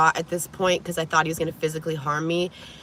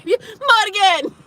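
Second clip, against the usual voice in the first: high, drawn-out call of her name through the window; imitating a creepy call; 13 semitones higher, 5 dB louder than usual. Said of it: "He's at my window".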